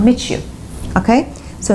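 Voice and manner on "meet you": "meet you" run together as "mee-chu"; ch sound in "meet you". Shown as a demonstration. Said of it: "you produce ch sound".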